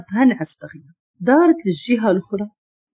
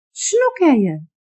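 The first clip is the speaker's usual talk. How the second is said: startled, higher-pitched question; fearful; 6 semitones higher than usual. A narrator's reading. Woman shoved awake asks what is happening, fearful. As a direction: ask it in fright, pitch raised. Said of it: "قالت بخوف".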